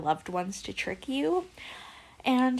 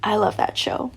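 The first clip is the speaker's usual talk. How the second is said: breathy whisper of love for the show; whispered aside; 7 dB louder than usual. Real, not acted. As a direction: confide it in a whisper. Gushing aside about a show.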